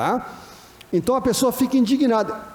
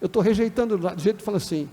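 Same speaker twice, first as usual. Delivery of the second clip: uninterested tone. Shown as a demonstration. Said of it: "Você fala pro cego assim".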